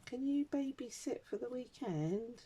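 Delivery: slow, high pleading daughter voice; daughter asking. Retold or imitated. Daughter's request voiced in anecdote.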